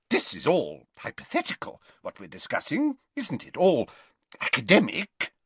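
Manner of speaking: lightly nervous professor voice, rising in pitch; uneasy professor. Acted. Professor insists to pupil it is hypothetical, uneasy. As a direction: seek reassurance, lifting toward the end. Troubled Slughorn seeks reassurance.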